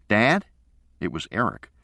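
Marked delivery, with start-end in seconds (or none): 0.1-0.5 put-on high, louder child's voice, upset; the son pressing his dad, emphatic; upset boy. A narrator's reading. Boy on the phone to his absent father, upset and emphatic. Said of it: "with that emphatic tone that he got when he was upset".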